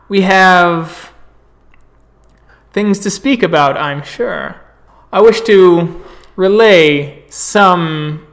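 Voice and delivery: travelling elder greeting friends, proud and booming; Garou orator. Acted. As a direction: address the gathered werewolves like an honoured guest storyteller. GM plays a visiting Garou orator.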